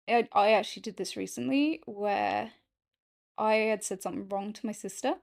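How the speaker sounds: normal talking voice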